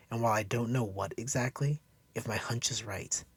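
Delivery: lightly voiced woman urging him to think; Cassandra.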